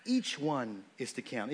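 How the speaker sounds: "Each" leaned on, slow; slow it and hit "Each"; quoting the verse, "Each" stressed. Shown as a demonstration. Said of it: "notice it says".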